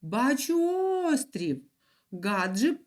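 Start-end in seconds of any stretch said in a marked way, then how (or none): 0.0-1.6 high excited call. Acted. Щебетунчик calls out from the boat, excited. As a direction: shout out spotting land. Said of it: "Раптом він голосно загукав".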